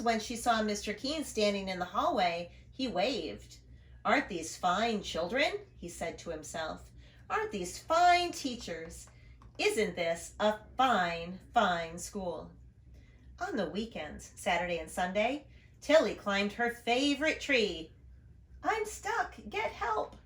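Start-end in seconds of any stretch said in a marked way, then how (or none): 4.0-12.5 a proud, beaming principal, lightly voiced. Principal praising his fine school, lightly proud. 18.6-20.2 put-on much higher, piping little kid; small child voice. Stuck child calling for help from her tree, much higher.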